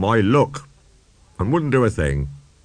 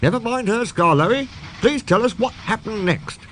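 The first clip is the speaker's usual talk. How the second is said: put-on high child voice, eager; 12 semitones higher than usual. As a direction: beg for the rest of the story. Listener voice, child.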